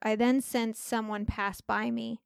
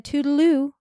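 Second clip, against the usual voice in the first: imitating a grandmother's high little goodbye; high-pitched toodaloo; 5 semitones higher, 8 dB louder than usual. Dying grandfather echoing grandma's goodbye, lightly imitated high pitch. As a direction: lift it up into a higher sing-song. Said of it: "in a high pitch".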